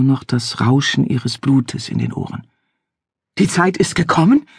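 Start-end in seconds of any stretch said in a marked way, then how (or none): 3.4-4.5 gasped, higher, incredulous question; father gasps back the stranger's words in anger; breathless with rage. Acted. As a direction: throw his words back at him. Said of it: "japste ihr Vater schließlich atemlos vor Zorn".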